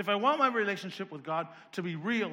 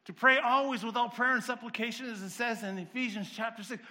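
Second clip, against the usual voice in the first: auctioneer rattle; 3 semitones higher, 3 dB louder than usual. Real, not acted. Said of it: "Sorry for sounding like an auctioneer".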